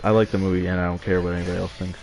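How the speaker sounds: rushed, fast correction of a fumbled line; fast restart. Shown as a demonstration. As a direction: rattle it off quickly after tripping. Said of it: "duh, collect your words".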